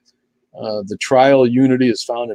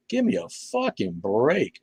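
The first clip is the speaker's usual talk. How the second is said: exasperated; 7 semitones higher, 7 dB quieter, much slower than usual. Real, not acted. Exasperated at censorship.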